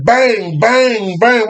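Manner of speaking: high, slow, drawn-out bangs; storyteller's gunfire imitation; imitated gunshots. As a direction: ring out each shot separately.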